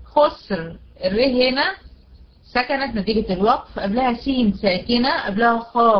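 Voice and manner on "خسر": خسر ending in a thick R; heavy ra at stop. Shown as a demonstration. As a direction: close خسر on a heavy vowelless R. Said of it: "هنا هتفخم".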